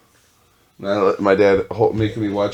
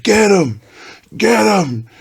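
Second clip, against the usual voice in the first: high shouted cheer, much louder; dad cheering bombs; 12 semitones higher, 5 dB louder, slower than usual. Retold or imitated. Dad cheering explosions on TV, loud high shout. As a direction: yell it like a fan urging on his team. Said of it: "He's like".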